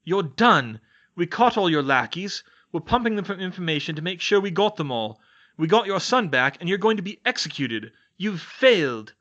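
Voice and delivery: loud, high furious yell. Acted. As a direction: scream it in his face. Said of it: "he yelled".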